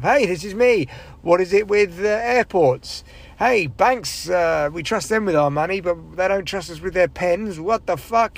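hammy, upbeat club comic voice; bright old-school observational comic patter; cheesy stand-up comic. Retold or imitated. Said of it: "doing this performance art piece of".

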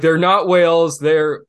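a hammed-up angry director; mock indignant. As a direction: Cameron correcting everyone, indignant. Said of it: "he's like".

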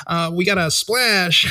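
slow cheesy sports announcer; white announcer voice. Shown as a demonstration. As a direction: call it like a corny broadcaster. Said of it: "white announcer voice".

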